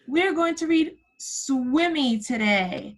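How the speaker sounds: a gasp, then slow and bright with excitement; excited reveal. Real, not acted. Teacher reveals the book choice to her kindergarten class, excited. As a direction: unveil the book like a surprise.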